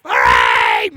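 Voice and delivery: the cow squeals for joy; cheering cow. Acted. Cow cheers being safe.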